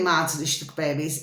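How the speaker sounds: a fast murmured aside to the audience; quick low aside. Real, not acted. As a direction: toss the pet name off under your breath. Pet-name aside to viewers.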